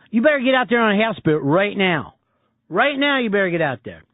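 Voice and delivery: urging in a mimicked Philly accent. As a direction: play a Philly caller pressing for help. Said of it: "hears me doing this accent".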